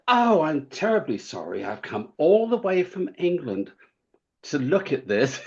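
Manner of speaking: put-on a lightly done British accent, polite and apologetic. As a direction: play the stranded English visitor in a mild British accent. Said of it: "I pulled out my accent".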